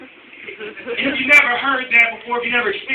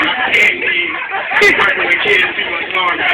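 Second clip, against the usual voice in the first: laughing; 5 dB louder, slower than usual. Real, not acted. Laughing resigned comment.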